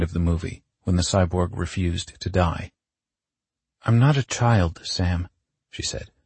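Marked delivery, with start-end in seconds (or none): 3.8-5.3 raised pitch, mildly exasperated; indignant protest. Acted. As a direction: push back, affronted. Indignant protest in acted argument.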